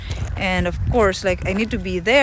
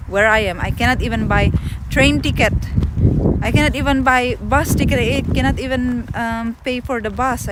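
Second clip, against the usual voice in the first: mild upset retelling; 3 semitones higher than usual. Retold or imitated. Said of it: "I said".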